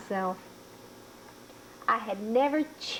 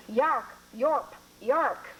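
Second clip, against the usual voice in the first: dogs barking; 2 semitones higher, much slower than usual. Acted.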